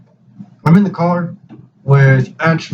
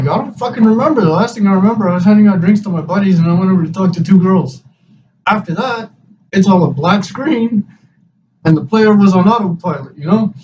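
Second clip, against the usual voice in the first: exasperated confusion; 6 semitones higher than usual. Retold or imitated. Asked what happened, can't remember.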